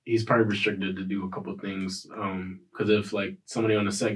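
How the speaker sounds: blocked nose from allergies; stuffy, congested voice. Real, not acted. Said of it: "Sorry I sound stuffy".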